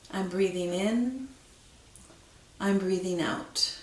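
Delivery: steady spoken mantra, even and gentle; calm mantra. Shown as a demonstration. Teacher modelling the mantra for students, calm and even. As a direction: say it plainly as the first repetition. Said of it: "is to say to yourself".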